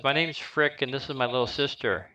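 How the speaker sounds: put-on a small boy introducing his sister; little boy. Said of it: "the little boy says".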